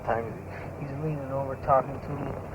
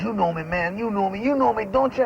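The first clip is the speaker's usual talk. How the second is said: rising higher and louder, pressing harder each time; mock insistent pleading; 8 semitones higher, 3 dB louder than usual. Doorman retells the patron cornering a big guy, climbing higher and louder as he insists. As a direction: imitate him badgering the big guy to vouch for him.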